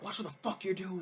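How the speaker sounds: mock angry snap. Acted quarrel between Dax and Bo.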